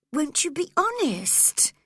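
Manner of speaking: put-on high, urgent girl's plea; Cathy cries out, pressing for honesty; cried out. Cathy cries at Linton, high and urgent. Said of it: "cried Cathy at once".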